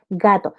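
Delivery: GATO with a soft voiced G, pitched low. Shown as a demonstration. Teacher repeating the example, GATO with soft G. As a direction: give GATO a gentle g as in go. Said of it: "La G con sonido suave".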